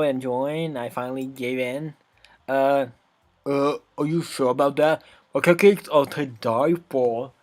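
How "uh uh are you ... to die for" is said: put-on sassy bratty girl, scornful. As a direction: scoff like a bratty tsundere. Natsuki voice.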